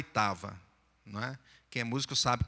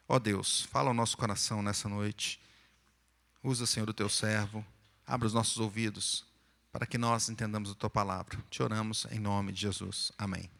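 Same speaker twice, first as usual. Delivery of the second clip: prayer; 4 semitones lower than usual. Real, not acted. Pastor's opening prayer.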